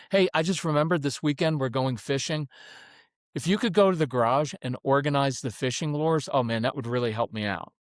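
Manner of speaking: even, matter-of-fact request; business-like tone. Shown as a demonstration. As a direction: casually hand over a small job. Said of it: "it's a very business-like tone".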